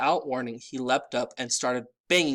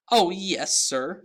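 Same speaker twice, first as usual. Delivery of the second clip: high eager elf voice; earnestly, in the elf's high voice; 6 semitones higher, 6 dB louder, slower than usual. A narrator's reading. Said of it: "said Dobby earnestly".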